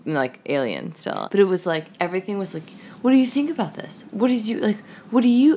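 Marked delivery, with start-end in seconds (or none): 3.0-5.6 lightly voiced parent talking to a baby, higher; a hint of dad's eager curiosity; doting parent questioning. Dad asking his baby's opinion, lightly imitated higher voice.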